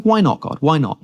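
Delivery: mock-puzzled appeal, starting high; puzzled protest. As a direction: question it like a baffled reader, pitch up. Acts out questioning God's command.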